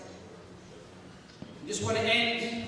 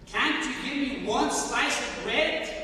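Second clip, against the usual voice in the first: begging God for bread, a little raised and rising; pleading prayer; 4 semitones higher than usual. Retold or imitated. Starving prisoner prays to God, pleading. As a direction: ask for one slice of bread as a humble plea. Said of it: "I was talking to God within my heart".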